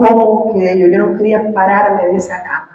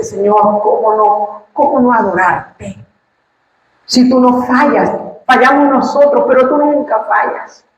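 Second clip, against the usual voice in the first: tearful prayer; 5 semitones higher than usual. Retold or imitated. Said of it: "yo lloraba".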